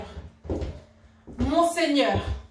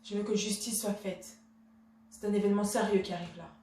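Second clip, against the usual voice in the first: soft, low, controlled reproach; restrained indignation; 3 semitones lower, 6 dB quieter than usual. Acted. Wife demanding justice from her husband, restrained indignation. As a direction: hold the offence in, keep it quiet.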